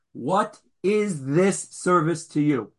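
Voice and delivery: slow, soft and sincere, no edge; a soft, earnest asking of the question; gentle sincere question. Shown as a demonstration. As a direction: ask it gently, as a genuine question. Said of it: "I can say it in the most gentle, soft tone, sincere manner".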